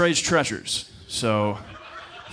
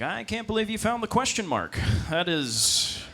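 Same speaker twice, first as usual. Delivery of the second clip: mock impressed; 6 semitones higher than usual. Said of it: "It's like".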